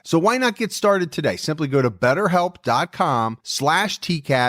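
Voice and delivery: upbeat sponsor read. Acted. Host pitching BetterHelp to listeners in an ad read. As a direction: sell it like a podcast ad.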